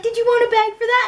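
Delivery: high-pitched granny impression; sweet old granny. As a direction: imitate a little old lady offering help. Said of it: "little old granny, she was so cute".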